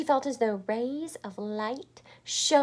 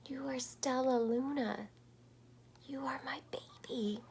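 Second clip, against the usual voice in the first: tender soft recognition; whispering; 4 semitones higher, 5 dB quieter than usual. Acted. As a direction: whisper it lovingly. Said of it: "she whispered".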